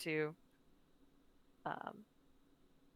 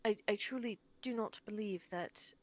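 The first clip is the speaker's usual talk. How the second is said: sincere apology. Acted. Tilda's heartfelt apology in character.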